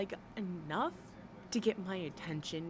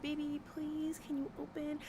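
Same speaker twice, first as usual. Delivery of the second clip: mock helpless plea; 6 semitones higher, 4 dB quieter than usual. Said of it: "I could not sit up there and be like".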